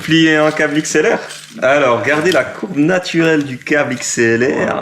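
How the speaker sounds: a hint of a mock tutorial host; présentateur de tuto. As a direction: explain it like a how-to video, playfully. (voix légère de tuto vidéo)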